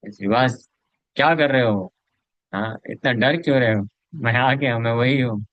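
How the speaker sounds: mild mock shouting at the door; calling out. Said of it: "तो जोर जोर से चिल्ला रहे थे".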